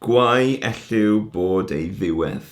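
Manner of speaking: slow, measured Welsh verse line; poem recitation. Shown as a demonstration. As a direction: recite the line at an unhurried pace. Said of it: "So we'll go to the third line".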